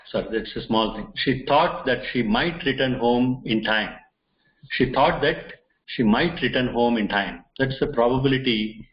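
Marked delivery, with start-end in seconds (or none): 1.2-3.9 slow and deliberate, each word weighed; slow emphasis. Shown as a demonstration. Teacher to students showing the example sentence, slow and deliberate. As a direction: spell the example out slowly for learners. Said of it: "There is more emphasis on this".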